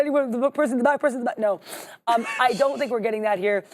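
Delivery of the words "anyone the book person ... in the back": auctioneer. Pretend. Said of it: "I feel like an auctioneer".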